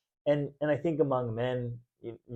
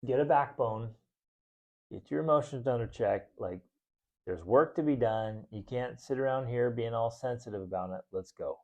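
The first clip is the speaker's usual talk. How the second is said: bro talk. Retold or imitated. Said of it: "be like".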